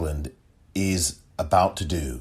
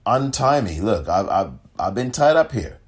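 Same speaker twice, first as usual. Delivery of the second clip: lightly acted plea, pitch lifted in places; retold begging; 4 semitones higher than usual. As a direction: retell it as a mildly urgent plea. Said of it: "begging him".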